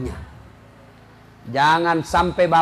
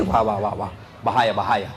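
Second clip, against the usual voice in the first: mock alarm; 11 semitones lower, 3 dB quieter than usual. Wife alarmed by remarriage threat.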